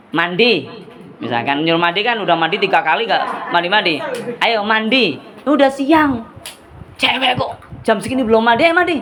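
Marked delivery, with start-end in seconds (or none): 4.4-9.0 acted scolding. Shown as a demonstration. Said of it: "kalau suara agak kenceng untuk acting boleh".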